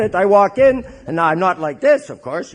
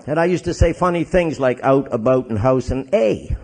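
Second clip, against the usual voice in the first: Canadian accent; 3 semitones lower than usual. Shown as a demonstration. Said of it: "they don't talk that way in Chicago".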